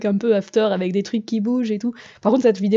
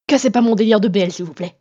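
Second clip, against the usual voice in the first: loud burst dropping off on the please; playfully aggressive outburst; mock aggressive; 4 dB louder than usual. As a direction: snap it in mock annoyance, then back off. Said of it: "C'était le moment agressif de la vidéo".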